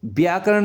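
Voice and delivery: व्याकरण starting with b, as byaakaran; wrong b start. Shown as a demonstration. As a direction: close the lips to begin व्याकरण on b. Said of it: "इसमें ब".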